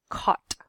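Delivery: "caught" with a short rounded vowel; light, rounded "caught"; not overpronounced. Shown as a demonstration. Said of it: "try not to overpronounce that".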